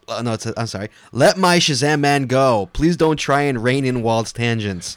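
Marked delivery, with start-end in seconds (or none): 1.1-5.0 emphatic email read. Acted. Reading listener email aloud, loud.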